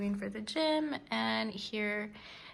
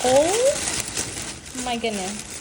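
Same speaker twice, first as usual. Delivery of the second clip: drawn-out, louder gush; excited; 3 semitones higher, 4 dB louder, much slower than usual. Real, not acted. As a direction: stretch it out in delight. Sees many lippies.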